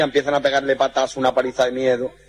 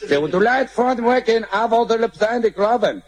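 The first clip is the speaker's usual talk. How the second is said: high, slow fake English gibberish; hammed-up gringo babble; mock American; 9 semitones higher, slower than usual. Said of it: "había un americano".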